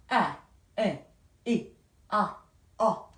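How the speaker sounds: short, separate "아, 에, 이, 아, 어"; short vowel sounds. Shown as a demonstration. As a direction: cut each vowel "아, 에, 이, 아, 어" short. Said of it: "short vowel sound를 보시면요". ("아, 에, 이, 아, 어"를 짧게 끊어서)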